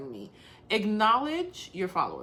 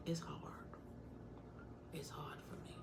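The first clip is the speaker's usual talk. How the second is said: whispered confession, much softer; quietly admitting a struggle; real whisper; 5 semitones lower, 21 dB quieter than usual. Real, not acted. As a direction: let it slip out as a whisper.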